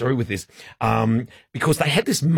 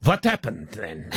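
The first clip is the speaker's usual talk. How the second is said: badly faked French accent; hammed-up French accent. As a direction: attempt to get back into French. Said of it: "that's my French accent".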